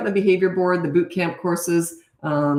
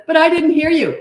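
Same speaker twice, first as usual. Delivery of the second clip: put-on high, loud whiny kid protest; high, louder child whine; whiny child excuse; 11 semitones higher, 8 dB louder than usual. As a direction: play the kid pleading innocence. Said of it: "if he says".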